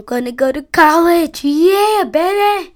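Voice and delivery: loud, high whoop of joy; excited shout. Real, not acted. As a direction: yell it out, thrilled. Kid shouts about birthday plans.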